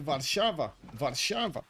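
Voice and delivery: Polish "Warszawa", sh in the middle, v sounds; Polish pronunciation. Retold or imitated. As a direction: say "Warszawa" as VAR-SHA-va, imitating a Pole. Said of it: "the Polish guy told me I was like".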